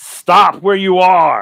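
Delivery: huge booming troll voice, very loud. Narrating to the players as a troll orders them to halt, in a loud booming troll voice. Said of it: "in this loud, booming voice".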